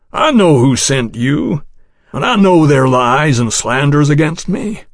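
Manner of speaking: patient, honeyed and sincere; syrupy sincere. Acted. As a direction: coax him with rich patience. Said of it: "a rich syrup of patience and sincerity".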